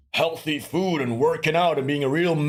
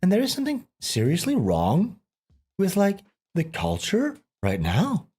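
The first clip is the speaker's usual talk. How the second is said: Tucker Carlson. Retold or imitated. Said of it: "Tucker Carlson would say something like".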